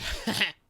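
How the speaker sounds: short put-on jeering cackle; imitated mocking laugh. Interviewer mocking crying Anya, short scornful laugh. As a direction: jeer with a brief fake laugh.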